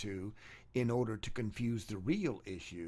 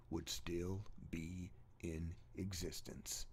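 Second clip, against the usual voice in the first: dramatic whisper; 6 semitones lower, 10 dB quieter, slower than usual. Acted. To listeners weighing evolution's stages, a hushed whisper. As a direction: hush it down to a breathy secret.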